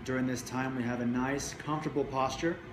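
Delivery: measured meditation guiding with long pauses between phrases; guided meditation. Real, not acted. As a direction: guide listeners into the body, leaving space after each phrase.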